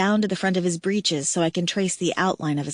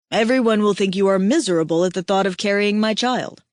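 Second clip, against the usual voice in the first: lightly voiced tender alien mate; 4 dB louder than usual. Aihako teasing weeping Kira, lightly voiced male mate. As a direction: voice the big mate, warm and teasing.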